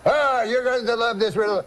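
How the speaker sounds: put-on high, eager French-Canadian accent; excited uncle with a French-Canadian accent. Uncle eager to tell wife.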